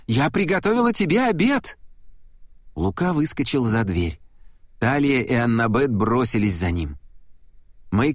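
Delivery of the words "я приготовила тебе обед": high, pleading mother's call; crying out after him. A narrator's reading. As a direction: beg him to stay for lunch. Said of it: "крикнула ему вслед". (мать отчаянно кричит вслед, высоко)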